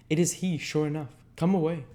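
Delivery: put-on high, hushing old villain; the Jew's voice. A narrator's reading. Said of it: "he thought he heard the Jew say".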